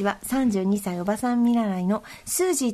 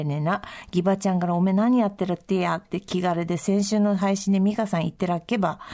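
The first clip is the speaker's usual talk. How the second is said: reading a letter in a lightly lower, broad Akita dialect; 3 semitones lower than usual. Shown as a demonstration. Host reads a listener's letter to co-host, in Akita dialect. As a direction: read it like a homely Akita local. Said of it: "私が秋田弁で読みますね".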